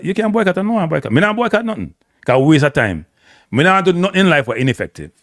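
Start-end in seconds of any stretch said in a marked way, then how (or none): 0.0-1.1 mocking singsong, pitched much higher; high, taunting parody of a caller who won't boycott; mocking echo. 1.1-1.9 high, taunting mock voice; mock him in a high teasing tone; mocking echo. Mocking the boycott caller.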